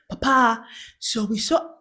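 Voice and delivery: lightly put-on Ugandan accent. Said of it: "I'm doing, like, the Ugandan accent".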